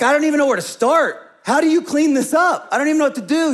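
overwhelmed helpless outburst; exasperated disbelief. Retold or imitated. Retelling being overwhelmed.

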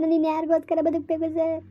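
weep out the question; crying. Acted. Abandoned wife asking the officer who she should live for, crying.

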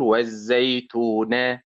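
والزيتون with the stress on its last syllable; wrong stress on ending. Shown as a demonstration. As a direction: push the weight onto the end of والزيتون. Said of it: "لم أخطئ أيضًا وأقول".

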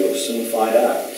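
slow retold reply, slightly hushed; older prosecutor. Older prosecutor answering his junior, slow understated reply. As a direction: answer slowly, as the older man. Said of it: "And the older guy said".

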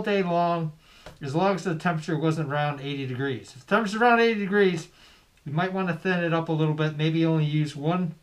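muffled behind bandana; speaking through tied cloth; through a cloth face mask. Real, not acted. Seen 4: red bandana tied over nose and mouth throughout.

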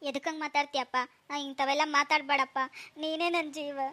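a hint of weeping, begging him to stop; crying softly. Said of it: "ಅಳ್ಬೇಡ ಬಿಡಮ್ಮ". (ಮಗನಿಗೆ ಮೃದುವಾಗಿ ಅಳುತ್ತಾ ಬೇಡಿಕೊಳ್ಳುವಿಕೆ)

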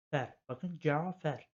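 Cafer slowly, spoken as plain Turkish d͡ʒafær; teacher models Cafer for students, slow and clear; Turkish reading. Shown as a demonstration. Öğretmen Cafer'i yavaş ve net okuyor. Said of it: "Direkt biz burada Cafer diyoruz".

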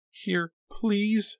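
high-pitched plea for help; desperate cry. A narrator's reading. Pam waving to the car, desperate cry. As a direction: call out weakly but high. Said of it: "she managed to cry".

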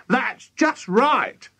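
high, drawn-out cry; high-pitched urgent wife; alarmed cry. A narrator's reading. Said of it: "cried Missus Cranky".

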